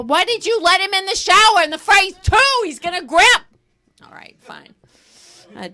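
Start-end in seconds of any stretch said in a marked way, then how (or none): 0.0-3.4 incredulous retort. Retold or imitated. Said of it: "And I said".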